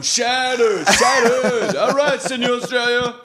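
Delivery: high, loud rock-singer impression; hammed-up British rock star onstage. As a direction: holler it like a stadium frontman. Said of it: "the singer's up there going".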